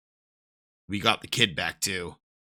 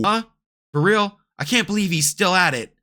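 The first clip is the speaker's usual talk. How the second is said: amazed shout; 9 semitones higher, 7 dB louder than usual. Acted.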